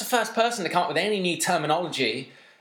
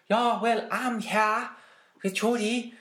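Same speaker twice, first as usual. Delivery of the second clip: higher, lightly voiced interviewer; mock interviewer; 8 semitones higher, slower than usual. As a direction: imitate the chirpy reporter. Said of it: "Rosie was like".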